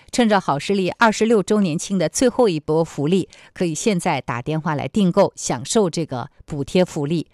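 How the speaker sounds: upbeat hard-sell ad read; infomercial. Acted. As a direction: pitch the product like a TV shopping host. Ad read within news programme.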